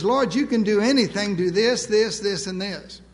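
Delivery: pushy, ticking off orders to God one by one; mock-entitled list of demands; demanding presumption. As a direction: rattle off demands, finger jabbing each this. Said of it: "Presumption says".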